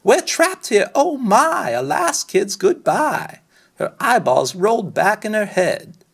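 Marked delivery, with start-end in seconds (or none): 0.0-3.4 high, frantic wail, slowing to a dramatic farewell; panicked teacher. Acted. Teacher trapped on the island, high and panicking. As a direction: shriek like a hysterical teacher stranded. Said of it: "Miss Lila Greer started to scream".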